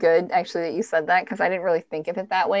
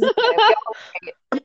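mock calm dispatcher, higher and louder; reassuring dispatcher; 5 dB louder, faster than usual. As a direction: soothe a panicked caller over the phone. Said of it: "she's trying to keep him calm".

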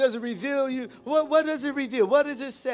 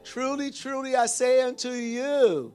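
drawn out very slowly, building louder to the end; slow emphatic proclamation; 3 dB louder, much slower than usual. Shown as a demonstration. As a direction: proclaim each word, swelling on "enter in". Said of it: "put an extra emphasis on this thing".

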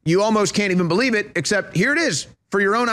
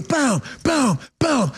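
mimed punch sounds; 4 semitones higher, much slower than usual. Retold or imitated. Imitates the punches.

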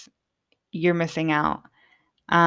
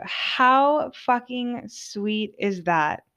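high and very slow, savouring it; gushing delight; 5 semitones higher, much slower than usual. Real, not acted. To listeners about the joint Natalie rolled, high, slow gushing. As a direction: melt over how sweet it was. Moved by friend's sweet gesture.

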